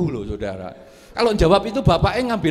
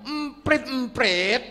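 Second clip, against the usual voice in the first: irritated son; 8 semitones higher, slower than usual. Acted. Son snaps answer angrily.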